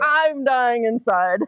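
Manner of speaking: mock agony. Exaggerated longing to compliment.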